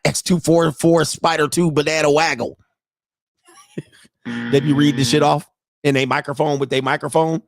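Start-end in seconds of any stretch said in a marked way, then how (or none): 0.0-2.6 mock play-caller. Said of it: "They be like".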